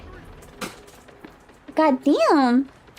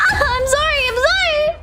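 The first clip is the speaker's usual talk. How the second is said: laughing apology; 10 semitones higher than usual. Real, not acted. Laughing after teammate died.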